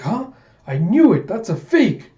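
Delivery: high, loud outburst; acted indignant cry; shocked accusation. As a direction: call out an impostor. Koyomi exposes the impostor.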